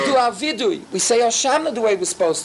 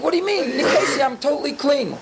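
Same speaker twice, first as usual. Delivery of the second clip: imitating a raised-voice protest, pitched up; mock indignant yelling; 2 semitones higher than usual. A congregant protesting to Hashem after punishment, mock yelling. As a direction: protest your innocence in a mild mock yell. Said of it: "then you start yelling".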